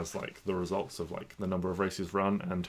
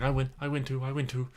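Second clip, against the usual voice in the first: higher, excited little creature voice; excited lizard; 6 semitones higher than usual. Acted. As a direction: squeak it out like a proud lizard. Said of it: "It's like".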